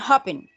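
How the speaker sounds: "happen" with a weak second syllable; unstressed last syllable. Shown as a demonstration. Teacher showing no force at the end, "happen" stressed on HAP. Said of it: "no tiene como esa fuerza al final".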